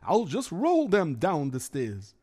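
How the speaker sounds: put-on worried Yiddish-accented kvetching. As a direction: complain like a hapless schlemiel. Figure narrates his mishap.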